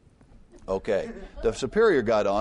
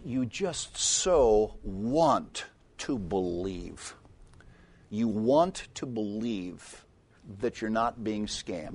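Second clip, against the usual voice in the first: slow and wistful; much slower than usual. Real, not acted. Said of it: "reflective sermon point".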